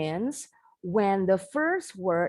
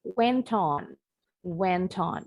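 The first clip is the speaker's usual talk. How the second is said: British went on, clear T between went and on; slower than usual. Shown as a demonstration. Teacher contrasts the British went on with the American. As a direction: keep the T in went on, British style. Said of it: "Ini orang Inggris bilangnya went on".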